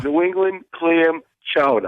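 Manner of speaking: New England accent, chowder as "chowdah"; Rhode Island Boston accent. Shown as a demonstration. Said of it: "say it with your Rhode Island Boston accent".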